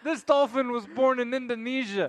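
laughing through the joke; cracking up as you say it. Real, not acted. Joking about dolphin trafficking.

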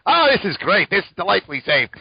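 high, sarcastic mock cheer. Sarcastic about creepy subway.

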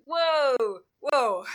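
loud, drawn-out "whoa" of objection; loud protesting whoa. Retold or imitated. Player objecting to the game master's accent, loudly. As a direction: call a halt, loud and falling.

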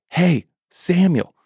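high, slow, drawn-out call; distant calling voice. Acted. God calling Samuel a second time, slow and high. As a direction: stretch the call across the dark.

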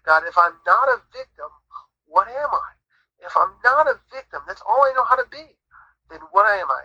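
retold plea to God. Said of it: "I said to God in my own voice, an audible voice".

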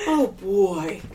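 laughing breathy Coolidge voice; a hint of Coolidge, giggling; Jennifer Coolidge impression. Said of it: "I'm trying to sound like Jennifer Coolidge now".

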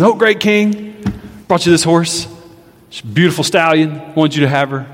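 fawning nobleman. Acted. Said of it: "comes back to the king and says".

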